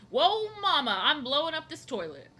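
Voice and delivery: high, loud croon with a laugh; hammed-up singer voice; impression of a singer. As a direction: do a singer hamming it up. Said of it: "that's my impersonation".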